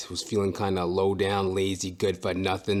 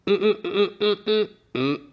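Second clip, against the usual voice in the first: playful humming; 10 semitones higher than usual. Pretend.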